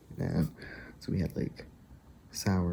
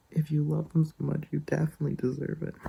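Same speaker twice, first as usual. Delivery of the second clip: sweet friend; 8 semitones higher, 3 dB louder than usual. Retold or imitated. Quotes friend's sweet, laughing reply.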